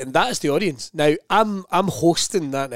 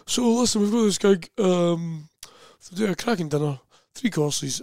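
food-obsessed gig booker; 3 semitones higher than usual. Retold or imitated. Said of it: "it's how he'd always talk about gigs".

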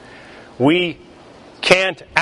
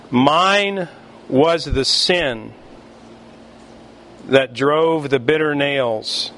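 solemn hymn quote; slower than usual. Shown as a demonstration. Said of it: "quoting the hymn slowly".

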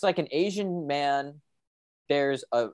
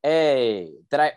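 much higher and louder, indignant Boston-style complaint; mock outraged customer; 8 semitones higher, 6 dB louder than usual. Student ordering sausage at the dining hall, mock outraged and loud. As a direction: demand your sausage in mock fury.

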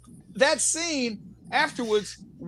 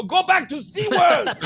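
higher, slow laughing taunt; famous line; 8 semitones higher, 4 dB louder, slower than usual. Retold or imitated. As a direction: relish the catchphrase. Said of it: "I was in Africa and go".

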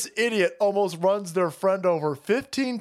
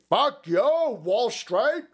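defiant sales pitch. Acted. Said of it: "as a way to say".

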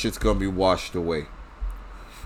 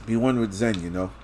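words around a sip; softly, right after a drink; while sipping a drink; 3 dB quieter than usual. Real, not acted. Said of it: "Pardon me while I, uh, drink my vaccine".

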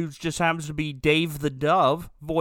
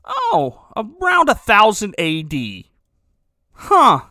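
much higher, squeaky know-it-all voice; high mock answer; 4 semitones higher, 6 dB louder, slower than usual. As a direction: answer yourself in a high silly voice. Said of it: "And then I go".

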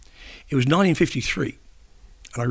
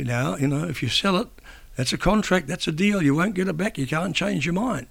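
a hint of a stern mother, pitched higher; lightly voiced mother; 5 semitones higher than usual. Mother warning her nine-year-old son about selling the crown, lightly imitated, higher pitched. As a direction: gently mimic his mother laying down the rule.

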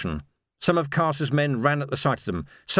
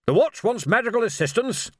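high-pitched startled query; taken aback; 9 semitones higher than usual. A narrator's reading. Arch-Chancellor hears the Watch's request, taken aback. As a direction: raise the pitch in mild astonishment. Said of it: "said the Arch-Chancellor, taken aback".

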